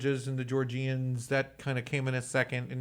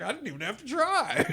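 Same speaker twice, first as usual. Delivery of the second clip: much higher, tossed-off brag; mock offhand boast; 13 semitones higher than usual. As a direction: toss it off like it cost nothing. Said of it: "and then he was like".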